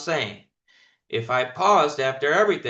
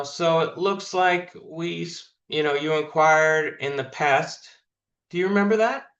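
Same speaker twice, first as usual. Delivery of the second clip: slow, drawn-out question, lightly mocked; a hint of a hesitant rep; mocking slow caller. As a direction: imitate a rep dragging the opener. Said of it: "I've heard people go".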